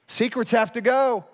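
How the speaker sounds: high, ringing repeat for emphasis; emphatic preaching. Real, not acted. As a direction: proclaim it to the congregation. Repeats it as a proclamation.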